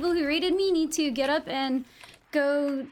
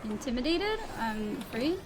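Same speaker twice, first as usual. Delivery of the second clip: scared; 4 semitones lower, 6 dB quieter, slower than usual. Real, not acted. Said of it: "I'm scared".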